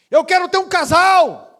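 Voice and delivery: loud, high woman's cry of hope; loud declaration. Retold or imitated. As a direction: burst it out at last.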